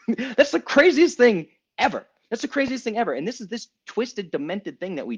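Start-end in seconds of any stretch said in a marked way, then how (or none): 0.1-3.1 laughing amazement. Real, not acted.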